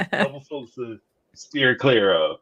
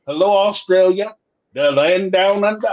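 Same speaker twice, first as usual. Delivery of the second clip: a mock Australian greeting, pitched up; attempted Australian accent; 4 semitones higher than usual. Host greets a Sydney fan, hamming an Australian accent. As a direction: try on a cheesy Australian accent. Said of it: "Pardon my, my, um, attempted accent".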